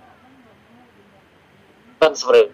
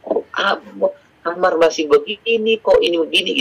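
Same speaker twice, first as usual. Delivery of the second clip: higher, nagging mother's complaint; exasperated scolding; 5 semitones higher than usual. Retold or imitated. Mother scolds nineteen-year-old son about his messy room, exasperated. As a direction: scold the grown son, fed up. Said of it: "saya bilang gitu".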